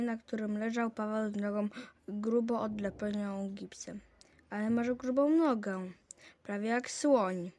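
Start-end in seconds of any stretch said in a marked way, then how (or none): 4.5-7.5 admiring exclamation. Acted. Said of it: "zawołałem z podziwem".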